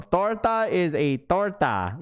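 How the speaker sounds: high, slow, drawn-out "torta is torta"; mock voice. Repeating a viewer's comment to chat in a high, drawn-out mock voice. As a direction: stretch it out high, mocking the line.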